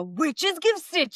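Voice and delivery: slow, high mock villain voice; witch voice. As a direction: stretch it out in a put-on voice. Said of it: "now you probably wanna go".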